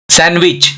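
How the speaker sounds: सैंडविच as "san-wich", no D; silent D. Shown as a demonstration. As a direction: drop the D in सैंडविच. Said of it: "इसका सही pronunciation है". (सैंडविच में ड silent, "सैनविच" बोलें)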